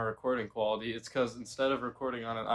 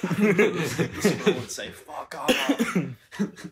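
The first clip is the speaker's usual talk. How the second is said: laughing through the line; giggling while telling it; 5 semitones higher, 5 dB louder, much slower than usual. Retold or imitated. Squirtle voice, laughing.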